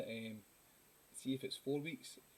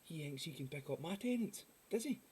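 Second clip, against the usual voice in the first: put-on higher, belligerent drunk act; mock drunken indignation; 5 semitones higher than usual. Drunk accusing someone of taking his Tennent's, mock outrage. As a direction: puff up like an affronted drunk. Voices drunk man arguing over beer.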